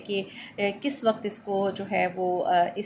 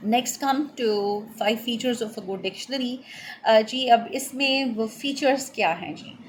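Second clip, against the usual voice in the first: slow dictation; slower than usual. Shown as a demonstration. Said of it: "आप ये लिख लीजिए".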